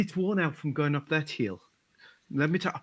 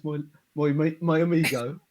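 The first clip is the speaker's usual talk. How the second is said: mild mock Spanish accent; 4 semitones lower, 4 dB louder than usual. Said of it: "working on your accent".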